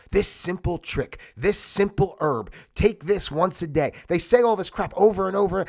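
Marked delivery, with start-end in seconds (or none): 0.1-3.9 slow, deliberate mock sales slogan; mock ad pitch. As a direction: spell out each slogan slowly, mimicking an ad. Mimicking repetitive commercial slogans.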